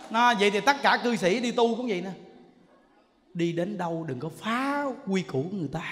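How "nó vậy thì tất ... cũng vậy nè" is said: ordinary delivery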